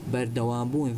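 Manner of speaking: ordinary delivery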